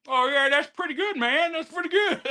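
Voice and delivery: put-on a relaxed good old boy shrugging off praise; impression of Tim. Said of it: "I loved your impersonation of me".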